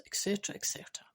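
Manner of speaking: quick whispered et cetera; whispered aside. Shown as a demonstration. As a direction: toss it off under the breath. Trailing off a list, whispered.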